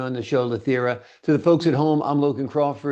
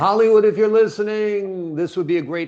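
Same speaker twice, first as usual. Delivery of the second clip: raised, bright appeal to Hollywood; playful call-out; 7 semitones higher, 4 dB louder than usual. Acted. Host calls out to Hollywood.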